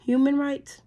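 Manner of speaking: can't believe what she just read; incredulous echo. Real, not acted. Repeating the bill's words back in disbelief. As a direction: pitch jumps up in disbelief.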